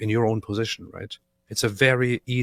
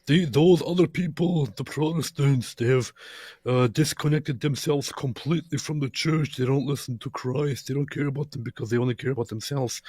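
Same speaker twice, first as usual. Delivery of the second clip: accusing other side; 4 semitones higher than usual. Retold or imitated. Co-host voicing the other side's accusation, mildly mock-indignant. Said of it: "from the other side who will say".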